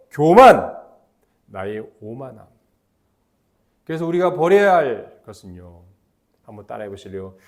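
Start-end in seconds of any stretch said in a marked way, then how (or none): none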